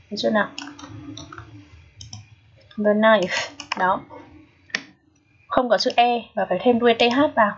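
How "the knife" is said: The knife, th said with the tongue between the teeth; teacher's model reading. Shown as a demonstration. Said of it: "Chúng ta đọc là the knife". (đọc mẫu The knife, lưỡi giữa răng)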